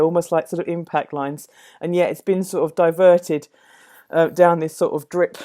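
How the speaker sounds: talking while still catching breath from the stairs. Real, not acted. Painter telling viewers about the energy in the work, breathless from climbing stairs. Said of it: "oh, I'm out of breath now".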